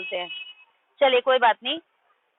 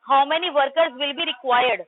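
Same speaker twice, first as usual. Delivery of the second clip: slow reading aloud; much slower than usual. Shown as a demonstration. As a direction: read each word very slowly. Reading the question aloud to class. (बहुत धीरे-धीरे पढ़कर सुनाना)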